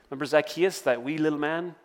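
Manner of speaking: slight accidental Irish lilt; a hint of an Irish accent. Preacher reminding the church of Zacchaeus, slight Irish accent. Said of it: "said that in Irish accent".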